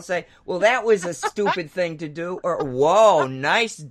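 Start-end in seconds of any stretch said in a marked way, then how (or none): 0.5-2.4 scolding myself. Retold or imitated. Mock scolding self-talk quote. 2.6-3.8 impressed with myself. Retold or imitated. Self-praise quote in self-talk.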